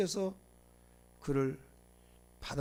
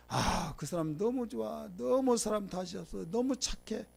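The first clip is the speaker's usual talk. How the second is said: mock gushing praise; 4 semitones higher, slower than usual. Imitates people praising someone.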